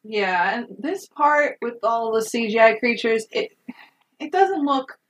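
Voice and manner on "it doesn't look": higher and slowed, "terrible" stretched out; hesitant hedge. Real, not acted. Podcaster hesitantly judging the CGI creatures, drawn-out hedge. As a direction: weigh each word reluctantly.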